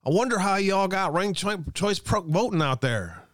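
hammed-up Southern accent, starting high; worst Southern accent. Host mocks ranked choice voting in a bad Southern accent. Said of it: "In my worst Southern accent".

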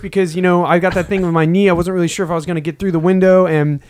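proud athlete at the mic; press conference voice. Pretend. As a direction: thank the fans after the big win. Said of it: "it's a after fight press conference".

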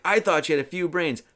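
imitated annoyance. Merlin fed up with Arthur, mild mock anger. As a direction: mildly play an exasperated wizard. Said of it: "He's all pissed off".

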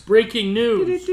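news anchor. Pretend. Announcing breaking news.

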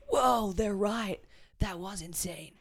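put-on light American accent. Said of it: "a little American accent there".

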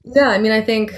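burping mid-sentence; talking while burping. Real, not acted. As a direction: speak through a small burp. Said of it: "sorry, I keep burping".

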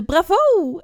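loud, drawn-out acted cheer. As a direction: cheer it out slowly and loudly. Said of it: "juichte 'Bravo!'". (luid gespeeld gejuich)

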